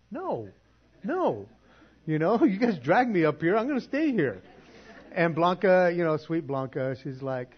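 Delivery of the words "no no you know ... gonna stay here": stubborn refusal. Retold or imitated. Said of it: "And it's like".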